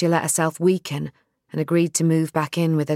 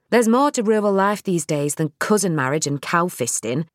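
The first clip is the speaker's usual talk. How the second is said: Nell's voice; 2 semitones higher than usual. Acted.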